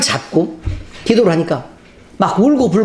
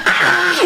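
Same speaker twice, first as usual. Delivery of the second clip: demon's cry; 12 semitones higher than usual. Retold or imitated. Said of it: "이러는 거예요".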